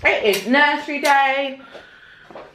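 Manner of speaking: talking while chewing gum. Real, not acted. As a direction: chew gum as you speak. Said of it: "I've just put gum in my mouth".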